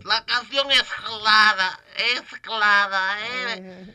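put-on light Castilian Spanish accent, lisped c and z; mock impression of a famous singer speaking with a Spanish accent; playful Spain Spanish accent put on lightly. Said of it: "se le fue el acento".

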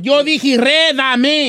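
"redamé" drawn out, r and d swapped; slow, stubborn "redamé"; insistent mispronunciation. Real, not acted. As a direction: stretch "redamé" slowly, starting re-. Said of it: "Usted dijo redamé".

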